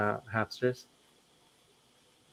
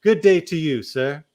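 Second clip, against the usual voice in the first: genteel Southern gentleman, a touch louder on the second good day; southern accent; 3 semitones higher, 7 dB louder than usual. Pretend. Host dismissing the troll in a mock Southern accent. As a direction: tip your hat Southern-style, a light Southern accent. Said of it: "I like how you did it in a southern accent".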